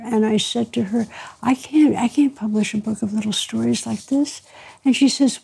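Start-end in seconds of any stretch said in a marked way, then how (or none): 1.4-4.4 softly retold, lightly halting protest; stammering. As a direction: repeat the opening as a mild stammer. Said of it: "to stammer".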